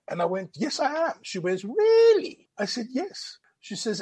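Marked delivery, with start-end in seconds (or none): 0.6-1.1 high-pitched retold assurance; insistent. Retold defensive answer to sceptic. 1.6-2.5 high, loud mock disbelief; incredulous. Retold sceptical woman questioning him. 2.9-3.4 high, soft retold assurance; small defensive yes. Retold first answer to her doubt.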